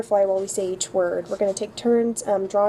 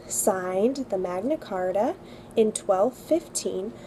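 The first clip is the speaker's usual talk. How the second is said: slow, careful dictation pace; slow recitation; slower than usual. Shown as a demonstration. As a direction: read it slowly for kids to repeat. Reads history sentence for memorizing.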